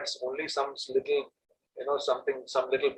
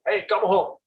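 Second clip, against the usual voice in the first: mock parent shout; 6 semitones higher than usual. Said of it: "the parents would shout".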